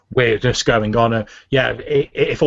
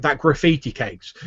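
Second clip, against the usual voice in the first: apologetic guard; 3 semitones higher than usual. Acted. Guard apologizing to angry official.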